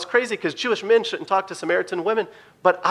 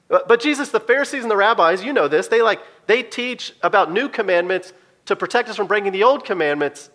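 arguing disciple; 4 semitones higher than usual. Retold or imitated.

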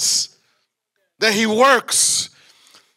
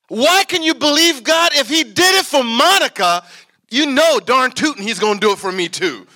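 southern preaching accent; 5 semitones higher, 5 dB louder than usual. Real, not acted. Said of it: "I feel like preaching in a southern accent".

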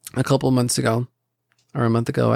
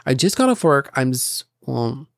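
upset whining. Retold or imitated. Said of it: "I would get upset and I'd be like".

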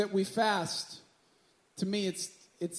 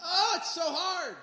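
higher, whiny mock lament; dramatic sigh; 4 semitones higher, 4 dB louder than usual. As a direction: ham up the suffering over nothing. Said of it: "Or like".

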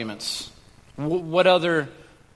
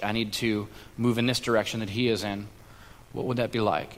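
quiet wondering; 5 semitones lower, 6 dB quieter than usual. Retold or imitated. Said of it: "get into his mindset and say".

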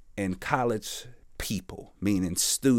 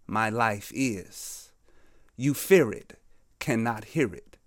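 measured spoken-word delivery with weighty pauses; poem recital; 2 semitones higher than usual. Acted. Prisoner letting it all out on paper, deliberate poem recital. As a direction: recite your own poem, setting each image apart.

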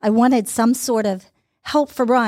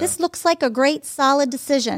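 quoted green light, pitched up; imagined easy approval; 5 semitones higher than usual. Retold or imitated. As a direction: give a mock reassuring go-ahead in a higher voice. Imagined logical human encouragement.

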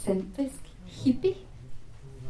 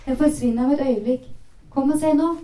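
quick, urgent call, rising higher and louder; mother calling out; 4 semitones higher, 4 dB louder, faster than usual. Acted. Mother calls daughter outside to see the rainbow, urgent calling out. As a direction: hurry her to come see. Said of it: "ropte moren".

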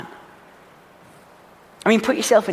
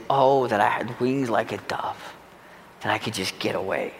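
crying out to God; 8 semitones lower, 9 dB quieter than usual. Acted. David on the mountain, crying out to God, hushed and aching. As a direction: breathe it out like a broken man on his knees. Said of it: "he cries out to God and he says".

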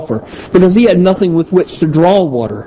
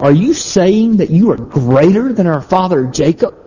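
mock challenge, higher pitch; zinger; 4 semitones higher than usual. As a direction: throw it out like a retort, swinging up high. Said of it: "she shot this little line".

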